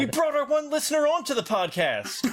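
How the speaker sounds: laughing outcry. Real, not acted. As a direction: exclaim it high through laughter. Joking exclamation over the one listener.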